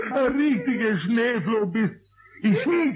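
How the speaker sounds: laughing. Acted. Eder laughing while teasing.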